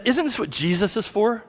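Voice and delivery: a hint of a cartoon voice asking the question. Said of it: "a voice that I can only describe as a cartoon voice".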